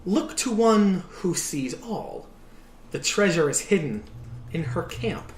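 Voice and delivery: slow, mysterious seer's warning; slow fortune teller. Acted. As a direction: hand down the clue slowly like an oracle. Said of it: "she goes".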